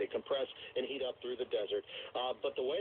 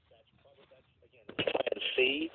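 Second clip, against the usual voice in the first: radio breaking up; 12 semitones higher, 6 dB louder than usual. Real, not acted. Phone line drops out mid-answer.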